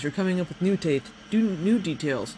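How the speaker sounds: hiccup cutting off a word; talking through hiccups. Real, not acted. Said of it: "I got the hiccups tonight".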